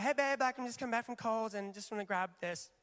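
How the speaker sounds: put-on light American accent, casual text-message read; imitated American wife. Husband hearing his wife's text in her voice, light American accent. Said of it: "but she's American".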